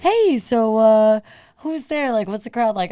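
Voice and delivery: breezy mock backstage question; imitating fellow comic. Retelling a comic asking about the crowd, imitated casual voice. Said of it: "and he's like".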